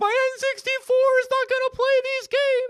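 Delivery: put-on very high, loud sobbing wail. Retelling opening PlayStation 2 games that the N64 couldn't play, imitating past sobbing. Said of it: "I am sobbing, just going".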